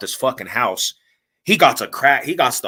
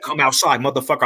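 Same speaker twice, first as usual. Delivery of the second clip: retold challenge; 3 semitones higher than usual. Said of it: "I started tripping".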